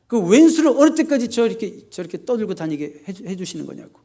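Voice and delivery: starts high and loud, then fades into a grumble; a complaint to God that flares, then drops off; acted indignation. Pastor playing David's complaint to God, indignant then fading. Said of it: "분노하고 하나님께 원망하는".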